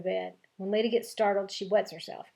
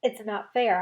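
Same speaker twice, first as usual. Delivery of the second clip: hollering; 5 dB louder, slower than usual. Acted. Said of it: "I holler".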